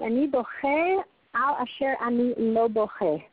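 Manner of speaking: "Ani boche al asher ani lo boche" said slowly, each word set apart; slow, weighted repeat. Shown as a demonstration. Teacher repeating the soldier's words to the class, slow and deliberate. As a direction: let the Hebrew line sink in slowly. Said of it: "So, you hear that?".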